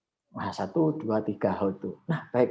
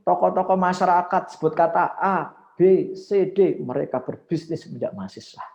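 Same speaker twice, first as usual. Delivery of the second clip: louder, higher rally call to students; rousing speech; 6 semitones higher, 5 dB louder than usual. Shown as a demonstration. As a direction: lift the room with examples. Demo speech, rising energy.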